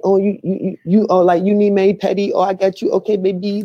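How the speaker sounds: put-on high pitched caricature of an Asian accent; imitating a nail salon worker's Asian accent; mock Asian accent. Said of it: "he do the Asian accent".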